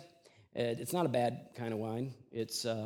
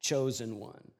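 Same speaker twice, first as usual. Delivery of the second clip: sneering, raised voice mocking the man on the cross; mock scoffing; 5 semitones higher, 3 dB louder than usual. A ruler jeering at the crucified Jesus, in mock scoffing. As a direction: scoff at him like a ruler taunting. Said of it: "they scoffed at him".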